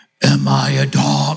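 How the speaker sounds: very slow, deliberate put-on voice, every word drawn out. Retelling a story where he speaks to David, in Ultron voice. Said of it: "I'm trying to do my Ultron voice".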